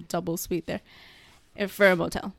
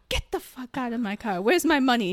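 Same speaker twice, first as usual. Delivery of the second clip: raised-pitch imitation of an outraged client; mock angry demand; 4 semitones higher than usual. Client throwing her out of his car, mock angry demand. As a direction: act out an indignant order.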